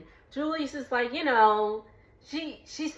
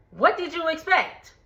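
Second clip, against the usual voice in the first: What did you expect, pitched up in disbelief; higher exasperated repeat; 6 semitones higher than usual. Real, not acted. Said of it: "repeats it higher".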